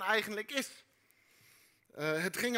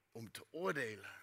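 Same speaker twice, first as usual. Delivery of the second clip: ominous; 9 semitones lower, 7 dB quieter than usual. Acted. Dramatic reveal of theme.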